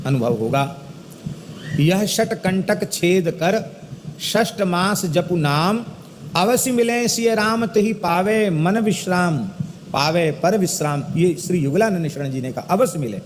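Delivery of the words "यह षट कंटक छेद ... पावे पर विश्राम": slow, measured verse recitation; दोहा पाठ. Acted. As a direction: recite the couplet slowly, word by word. (धीमी लय में दोहे का पाठ)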